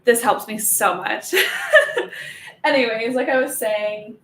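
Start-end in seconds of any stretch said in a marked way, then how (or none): 1.4-2.6 a bright high laugh. Real, not acted. Laughs after hot flash remark.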